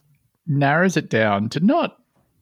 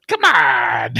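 pleading shout; 3 semitones lower than usual. Pretend.

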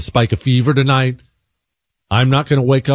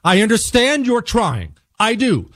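raised, exasperated pitch, held back in volume; losing it; 11 semitones higher than usual. Retold or imitated. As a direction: snap politely at the agent. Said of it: "This is where I lost it".

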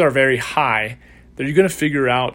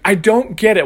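high, louder imitation of frustration; frustrated confusion; 7 semitones higher, 5 dB louder than usual. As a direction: protest in baffled exasperation, imitating her. Retold frustrated woman protests.

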